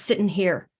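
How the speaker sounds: Irish accent, placed forward in the mouth; Irish accent demonstration. Shown as a demonstration. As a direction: speak in an Irish lilt. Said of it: "when I'm working in my Irish accents".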